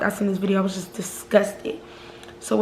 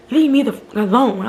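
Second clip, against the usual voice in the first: retold yell; 2 semitones higher, 5 dB louder than usual. Ex yelling at her to leave him alone, mock yell. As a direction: push him off with a shout.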